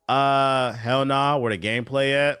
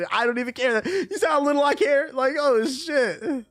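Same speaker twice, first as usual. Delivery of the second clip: hammed-up, very high-pitched voice; mock high voice; 14 semitones higher, 4 dB louder than usual. Streamer showing chat how little he cares, hammed-up high voice. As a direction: push it far up high, putting it on. Hammed-up show of not caring.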